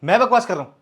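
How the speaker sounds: outraged at being called a liar; husband protests being accused of talking nonsense; indignant. Acted. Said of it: "चिल्लाने तुम लग गई".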